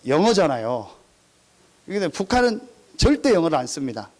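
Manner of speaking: normal talking voice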